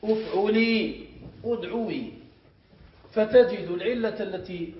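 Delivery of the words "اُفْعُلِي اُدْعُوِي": أفعلي slow as uf-ʕu-lii, then أدعوي matched as ud-ʕu-wii; teacher's measured uf-ʕu-lii, ud-ʕu-wii for أفعلي، أدعوي; underlying pattern. Shown as a demonstration. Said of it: "فتأتي بالأصل".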